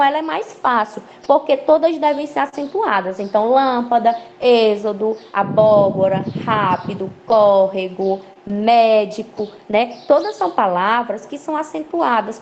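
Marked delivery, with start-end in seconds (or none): 3.5-9.5 "lâmpada, êxodo, abóbora, rápido, córrego, médico" as a measured list, each accented vowel leaned on; stressed antepenultimate syllables. Shown as a demonstration. Teacher listing examples for pupils, accented syllable stressed in "lâmpada, êxodo, abóbora, rápido, córrego, médico". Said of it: "a sílaba tônica vai ser a antepenúltima".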